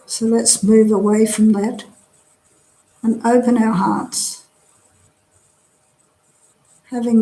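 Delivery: calm, measured meditation guidance with long pauses; guided meditation. Real, not acted. Teacher leading a drop-in group through a body scan, guided meditation. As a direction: guide them gently through relaxing, leaving space after each phrase.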